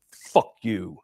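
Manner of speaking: "Fuck" with a stressed F, low-key retelling; emphasis on the F. Retold or imitated. Officer retelling a dying man's last words, stressed F in "Fuck". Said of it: "with the emphasis".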